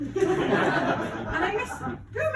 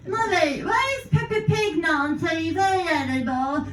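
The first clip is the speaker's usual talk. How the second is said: put-on child voice. Child voice in Peppa Pig bit.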